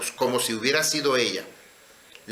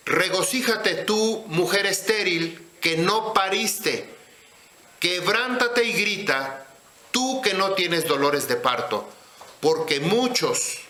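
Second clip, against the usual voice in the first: scripture reading; 3 semitones higher than usual. Acted. Teacher reading a verse to the congregation, measured scripture reading. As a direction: read the verse out deliberately, phrase by phrase.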